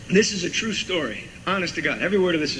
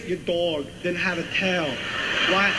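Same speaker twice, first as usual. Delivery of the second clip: Walken impression. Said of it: "all I hear is".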